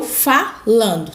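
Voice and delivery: falando broken up, with FA held; stretched stress. Shown as a demonstration. Teacher showing time spent on a syllable, stretched stress. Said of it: "fica por mais tempo na minha boca".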